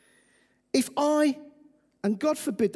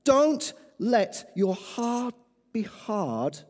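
gentle appeal. Acted. Soft altar call appeal.

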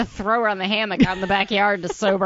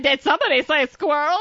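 high cartoon squirrel voice; 5 semitones higher than usual. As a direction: voice the squirrel, eager. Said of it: "He just decided to say".

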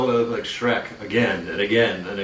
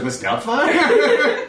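man doing a woman's voice; much slower than usual. Retold or imitated. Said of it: "I was like".

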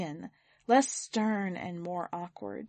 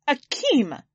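high loud urgent call; 6 semitones higher, 6 dB louder than usual. Acted. Danielle storms into the living room, urgent call. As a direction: shout his name bursting in.

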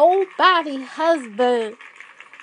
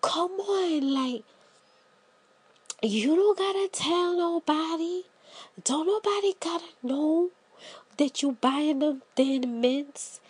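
coaxing hush; 6 dB quieter than usual. Retold or imitated. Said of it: "And they like".

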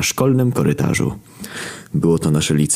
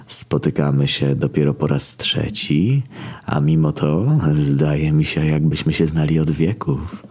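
slow, measured villain musing; menacing villain. Acted. Villain musing to trapped acquaintances, unhurried menace. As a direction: take your time, toying with them.

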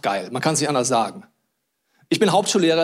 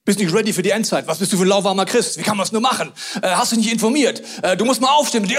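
mocking accuser; 2 semitones higher than usual. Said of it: "der eine denkt dem anderen".

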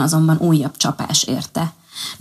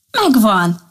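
a touch of a bright eureka cry; light call of a sudden idea; mild exclamation; 4 semitones higher than usual. Acted. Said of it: "kiáltott fel". (enyhe felkiáltás)

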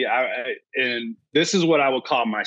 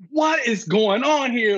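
freaking out; 8 semitones higher, slower than usual. Retold or imitated. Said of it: "I'm freaking out".

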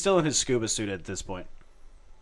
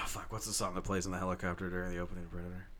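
whispering; 2 semitones lower, 7 dB quieter than usual. Real, not acted. Muttering to himself, trying to remember.

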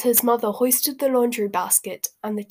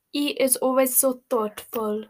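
adoring purr; 3 semitones higher than usual. Acted. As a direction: coo it lovingly about him. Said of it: "purred Fleur adoringly".

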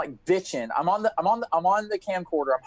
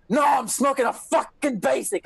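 higher, dismissive stoner refusal; lazy stoned friend; 7 semitones higher than usual. Retold or imitated. Imitating David, higher and dismissive, refusing to help clean. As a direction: brush him off, too busy smoking. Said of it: "you're like".

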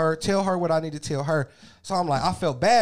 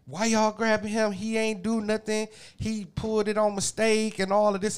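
imitating a girl's high-pitched defence; lightly voiced, higher protest on a boy's behalf; protesting daughter; 6 semitones higher than usual. Daughter sticking up for a boy at school, protesting. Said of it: "started defending him".

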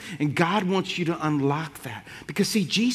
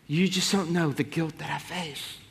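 mild soft confession; 6 dB quieter than usual. Retold or imitated. Mother confessing guilt, softly.

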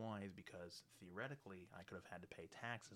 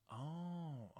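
sudden realization; 8 semitones higher, 5 dB louder than usual. Retold or imitated. Daughter realizes the leak.

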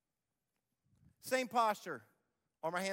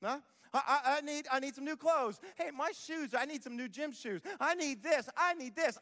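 put-on needy kid; 4 semitones higher than usual. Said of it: "when your kids got their hands out".

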